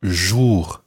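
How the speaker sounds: jour with a rounded French vowel. Shown as a demonstration. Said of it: "Watch the vowel sound that you make there".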